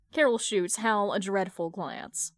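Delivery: ordinary delivery, nothing marked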